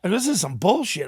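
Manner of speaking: protest, fed up and worked up; retold anger.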